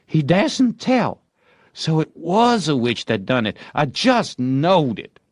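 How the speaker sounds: he's convinced it was a witch; boy sure of witchcraft. A narrator's reading. Tom deciding a witch spoiled it, high and sure.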